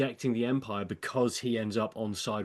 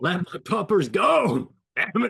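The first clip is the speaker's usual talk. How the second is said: loud, high-pitched, put-on American accent; 7 semitones higher, 7 dB louder than usual. Acting out a man finally pushing back on people against him, put-on American accent. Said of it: "I love when you speak American".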